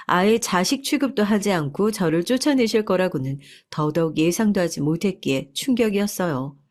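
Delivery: ordinary delivery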